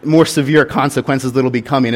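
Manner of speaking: hammed-up scolding yell at a misbehaving boy; mock angry father. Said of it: "what I first wanted to do was to be angry and be like".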